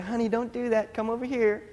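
lightly acted dad calling a toddler back; imitating a parent's mild warning; coaxing parent. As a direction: gently raise the pitch as if coaxing a small child. Retelling himself coaxing his toddler.

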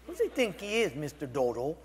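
indignant retold muttering, pitch jumping; mock grumbling. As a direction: grumble to yourself in mild exaggeration.

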